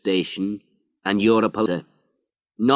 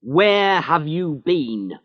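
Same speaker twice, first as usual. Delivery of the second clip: angry; 9 semitones higher, 4 dB louder than usual. Acted. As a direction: tear into him like an angry boss. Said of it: "He was angry now".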